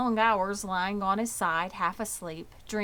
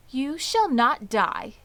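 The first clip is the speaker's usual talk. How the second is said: brisk and firm, a little louder; 6 semitones higher, 7 dB louder than usual. Acted. Charlotte firmly reassures Wilbur, brisk and a little louder. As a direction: cut him off with a crisp promise. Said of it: "said Charlotte briskly".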